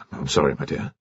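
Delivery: low, hushed apology; quiet apology. A narrator's reading. Colonel to his daughter caught embracing, soft apology. Father apologises on surprising lovers.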